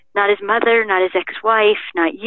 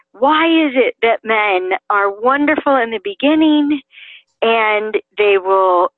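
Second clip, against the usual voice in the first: imitated demanding. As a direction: mildly act out a woman demanding an answer. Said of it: "she raised her hand and she demanded".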